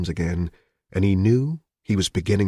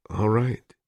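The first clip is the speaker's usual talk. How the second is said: thin, tense reply; 3 semitones higher than usual. Acted. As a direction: squeeze the words out thinly. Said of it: "he said thinly".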